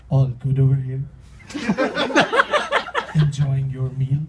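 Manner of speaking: mock overeager waiter. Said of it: "He leans and says".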